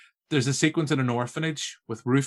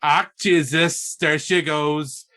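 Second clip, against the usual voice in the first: louder, slow excited pointing out; excited nudging; 3 semitones higher, 5 dB louder, slower than usual. Retold or imitated. Husband to wife in bed as Penny is adopted, excitedly. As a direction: urgently point it out to his wife. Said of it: "turned to my lovely wife and was like".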